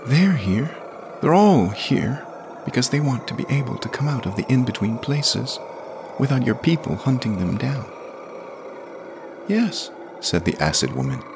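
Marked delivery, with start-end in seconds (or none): 0.0-7.9 put-on a kid standing up for his friends; high-pitched stubborn boy; defiant boy. A narrator's reading. Jamie's voice, defiant. 9.5-9.9 very high, otherworldly voice; high strange hiss of a yes; eerie creature woman. A narrator's reading. Acid woman's voice.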